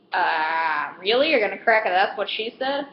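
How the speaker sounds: disbelieving, echoing his joke back with a rising question; incredulous. Retold or imitated. Clerk to customer after his bad joke, incredulous. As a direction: throw his line back at him in disbelief. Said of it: "And I'm literally like".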